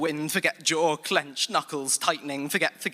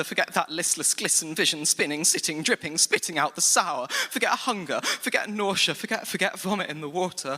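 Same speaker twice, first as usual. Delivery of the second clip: higher, pushing each line harder; rising anguished pitch; 5 semitones higher than usual. Acted. Poet driving the poem's climax, higher and pressing. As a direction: climb toward the breaking point.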